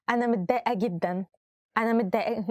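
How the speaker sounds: giggling while trying to say she is upset; can't keep a straight face, laughing on the words; laughing through it. Shown as a demonstration. Teacher demonstrating a phrase, breaking into laughter. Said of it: "I cannot say it with a smiling face".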